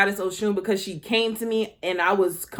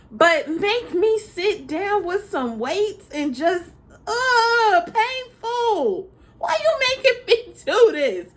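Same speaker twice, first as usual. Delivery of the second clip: mock whine; 11 semitones higher, slower than usual. Mock complaining about weight training.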